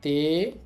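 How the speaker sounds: তে said alone, short and clear as te; reading demo. Shown as a demonstration. Teacher showing students the kanji reading তে, clearly. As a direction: set তে apart and say it cleanly as te. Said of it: "আর এটার উচ্চারণ হবে".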